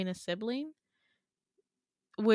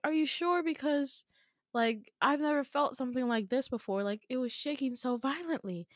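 acted worry; 4 semitones higher than usual. Acted worried child questioning dad.

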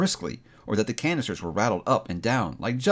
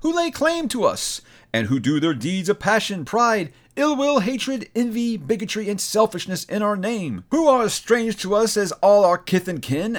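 echoing ethereal energy being; 7 semitones higher than usual. Acted. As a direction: rebuke like a towering ancient spirit. Spirit's solemn rebuke.

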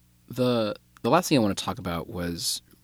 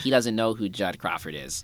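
handsome Squidward voice. Retold or imitated. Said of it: "stop with the handsome Squidward voice".

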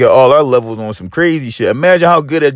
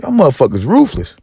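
high-pitched disbelief; 10 semitones higher than usual. Retold or imitated. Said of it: "I'm like".

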